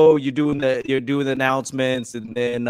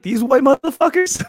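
mock high joke voice; 10 semitones higher than usual.

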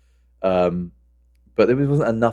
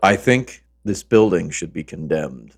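deadpan inspector; 3 semitones lower, slower than usual. Acted. Reciting film character's firehouse verdict.

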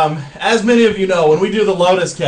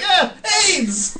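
hammed-up holler in a much higher voice; imitated heckler; 13 semitones higher than usual. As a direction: mimic a bystander's yell at reduced volume. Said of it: "he's just like".

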